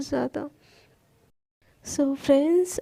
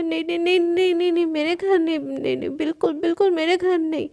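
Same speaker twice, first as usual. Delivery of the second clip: panicked refusal; 2 semitones higher, faster than usual. Acted. Palak refuses Shanaya moving in, mildly panicked. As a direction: blurt the nos in a mild panic. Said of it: "पलक एकदम घबरा जाती है".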